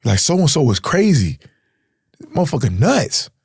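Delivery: panicked urging to flee; urgent plea. Retold or imitated. Telling the getaway driver to leave, urgent high plea. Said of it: "we're telling the driver".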